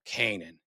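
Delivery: Canaan said KAY-nun; organization's pronunciation. Shown as a demonstration. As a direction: stress the first syllable of Canaan. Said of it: "how does the organization say it".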